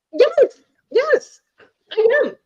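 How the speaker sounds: high, loud, emphatic yes. Retold or imitated. Confirming to her date she is mad, loudly.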